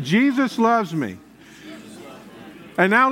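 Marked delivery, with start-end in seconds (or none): 0.0-1.2 like you mean it. Shown as a demonstration. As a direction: say it with conviction, drawing it out. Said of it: "Say it like you mean it".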